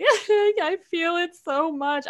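high, slow, wailing put-on voice; mock overemotional whine. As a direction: ham up how deeply you feel it, stretched and high. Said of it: "I'm like".

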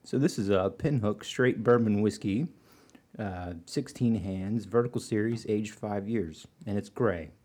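slow, soft imitation of Carrie. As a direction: do your best Carrie, slowly. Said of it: "let me put on my, my best Carrie voice".

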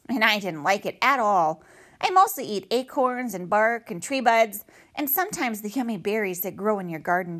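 a quick, chirpy little gossip; chatty squirrel voice. Acted.

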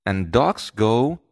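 gently firm mother, teaching a puppy; patient mother coaching her pup. Acted. Mother scolding George in a story.

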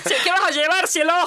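a high, syrupy shop assistant calling everyone cielo; sugary shop lady. Retold or imitated. Shop lady cooing cielo to a customer, high and sugary. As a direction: coo like a sweet shopkeeper. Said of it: "trata a toda desconocido de".

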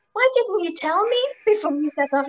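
exasperated guide asking why he said nothing; astonished. Retold or imitated. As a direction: ask it in total disbelief. Martin astonished at Mike.

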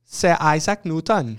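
put-on slow, stagey British accent; mock British accent. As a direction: announce the name in a hammed-up British accent. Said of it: "pretend like this is his accent".

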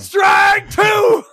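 loud game-show call; mock shout. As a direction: announce it like a buzzer.

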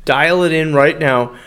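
punchy, pushy live sponsor pitch; hard-sell radio plug with swagger; cool Italian-guy ad read. Real, not acted. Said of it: "saying it in a real cool Italian voice".

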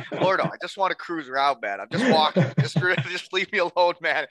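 acted-out whiny objection to a coach; pleading protest. Player begging his coach to back off, protesting. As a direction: plead to be left in peace, lightly exasperated.

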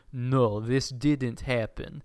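slow, lightly voiced mind-control command; Jedi mind trick. Villain mind-tricks a roomful of people, slow hypnotic command. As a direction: mildly imitate a hypnotic, drawn-out denial. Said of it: "like, Jedi mind tricks them".

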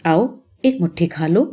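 tender, coaxing offer; gentle, loving invitation; very affectionate. A narrator's reading. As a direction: coax a child lovingly. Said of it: "بڑے پیار سے کہا".

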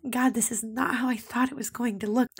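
real emotion rising, voice lifting a little as tears come; tearing up. Real, not acted. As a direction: near tears, trying to speak through it. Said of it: "And I'm tearing up because".

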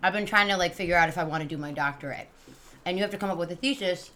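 chewing candy while talking; mouth full. Real, not acted. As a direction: speak around a mouthful of candy. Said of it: "I have a starburst in my mouth".

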